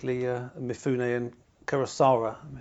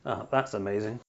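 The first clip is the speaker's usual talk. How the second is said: low, soft and dry, rising at the end; sarcastic; 4 semitones lower, 5 dB quieter than usual. Shown as a demonstration. Host demonstrating the same words said with sarcasm: low and dry. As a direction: drop the voice and let it drip with sarcasm. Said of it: "Or I could say".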